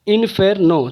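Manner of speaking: इन्फेर्नो split into three beats; syllable by syllable. Shown as a demonstration. Teacher counting three syllables, इन्फेर्नो broken up. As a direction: break इन्फेर्नो apart at each syllable. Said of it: "तीन हो गया".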